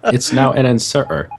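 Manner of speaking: "inserter" with a missing T; mimicked dropped T. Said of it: "remove all T's from the word".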